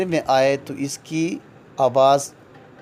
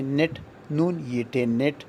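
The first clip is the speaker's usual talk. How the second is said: spelled out slowly; 6 dB quieter than usual. Shown as a demonstration. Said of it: "درمیان میں ای کی آواز یہ".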